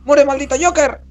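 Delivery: high shouted battle cry. Real, not acted. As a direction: yell at the villain. Grito de batalla contra Joker. (grito de batalla)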